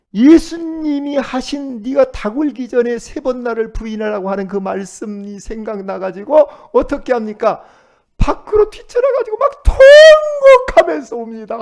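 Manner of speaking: loud, high, driving sermon voice; fervent preaching. Acted. Pastor preaching hard to the congregation, loud. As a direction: preach it out with rising fire.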